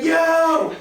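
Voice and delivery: alarmed yelp. Retold or imitated. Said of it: "And I'm like".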